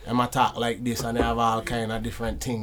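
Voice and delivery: light Jamaican patois flavor; Jamaican accent. Shown as a demonstration. Asked how Jamaicans talk, showing a Jamaican accent. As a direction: demonstrate Jamaican speech for friends. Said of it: "How does Jamaicans talk?".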